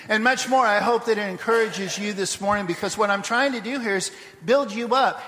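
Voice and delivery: rally the congregation to act; rousing closing charge to the church; preaching. Real, not acted.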